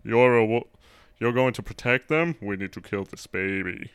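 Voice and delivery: breathy wolf-pack voice, mock serious. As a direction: breathe the lines like a movie werewolf. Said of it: "we have breathy voices when we talk".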